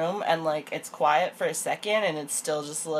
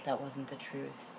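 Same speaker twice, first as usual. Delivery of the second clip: mock earnest confession; 3 semitones lower, 9 dB quieter than usual. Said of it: "What he says is".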